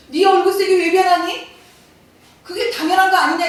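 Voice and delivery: God confronting Cain, demanding why; God's stern question. Retold or imitated. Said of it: "하나님 뭐라고 얘기하세요".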